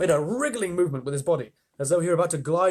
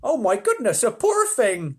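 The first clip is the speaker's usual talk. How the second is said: high, louder ladybird voice; ladybird cry; 8 semitones higher, 7 dB louder than usual. Acted. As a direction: fluster with pity. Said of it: "the ladybird cried".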